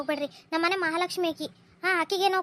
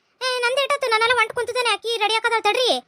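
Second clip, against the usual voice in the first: louder, higher, fed-up reply to a nagging husband; exasperated retort; 3 semitones higher, 4 dB louder than usual. Acted. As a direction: snap back that the daughter is still getting ready. Wife snaps back at hurrying husband. (ಗಂಡನಿಗೆ ಬೇಸರದಿಂದ ಜೋರಾಗಿ ಉತ್ತರ)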